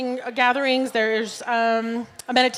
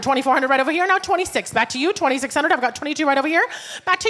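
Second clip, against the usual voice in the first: brisk raised auctioneer patter; 3 semitones higher than usual. Acted. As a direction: call the bids, keep it rolling. Our auctioneer.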